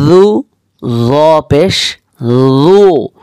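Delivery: light জু demo; জু pronounced soft and thin. Shown as a demonstration. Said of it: "নরম এবং পাতলা করে".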